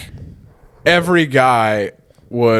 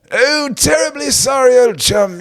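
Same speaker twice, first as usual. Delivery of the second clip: sea lion voice; 11 semitones higher than usual. Pretend. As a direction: shout it like a posh sea lion. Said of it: "That's my sea lion voice".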